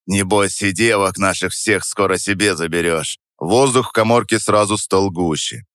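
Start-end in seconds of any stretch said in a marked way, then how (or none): 0.1-3.2 плохо скрытая злоба. Acted. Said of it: "добавил с плохо скрытой злобой".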